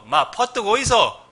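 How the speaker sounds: loud, high, slow Gyeongsang accent; Gyeongsang dialect. Shown as a demonstration. Preacher turns "come quickly" into loud Gyeongsang accent. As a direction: call out like a Gyeongsang local. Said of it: "경상도".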